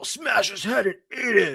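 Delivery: high grungy voice. Quoting what he says again, going only for the grunge in his voice. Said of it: "just the grunge in his voice".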